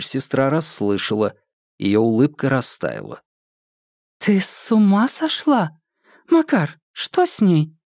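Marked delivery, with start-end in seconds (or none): 4.2-7.7 shocked. Acted. Sister shocked at outburst.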